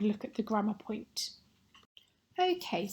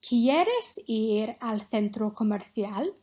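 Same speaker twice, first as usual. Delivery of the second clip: ¿Quieres ir al centro comercial? read slowly and clearly; slow dictation; slower than usual. Shown as a demonstration. Teacher dictates a sentence to students, slow and clear. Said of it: "say one of these six sentences".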